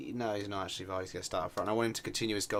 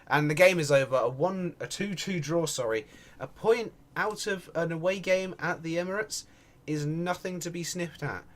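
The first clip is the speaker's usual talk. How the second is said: raised commentator's voice at full time; match commentary; 7 semitones higher, 6 dB louder than usual. Real, not acted. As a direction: announce the result, higher and lifted. Announces the final result.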